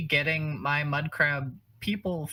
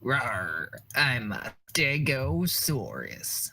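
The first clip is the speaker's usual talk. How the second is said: dinosaur voice; slower than usual. Pretend. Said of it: "The greatest dinosaur noise I've ever heard".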